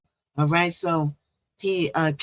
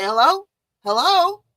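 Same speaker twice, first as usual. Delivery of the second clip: much higher, sing-song phone hello; mock eager foreigner; 12 semitones higher, 4 dB louder than usual. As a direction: play a foreigner suddenly all polite for money. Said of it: "They'd be like".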